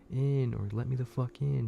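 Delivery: lightly voiced thing at the door demanding entry; creature voice. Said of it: "And it just keeps saying".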